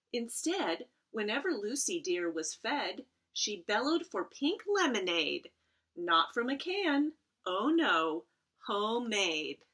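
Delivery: gentle rhyming storybook read; reading to children. Acted. Librarian reads a rhyming picture book aloud to her students. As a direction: read the verse to the kids.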